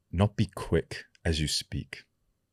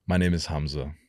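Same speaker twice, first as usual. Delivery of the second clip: forced deepness. Shown as a demonstration. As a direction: push a little depth into the voice. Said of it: "force some of the deepness to it".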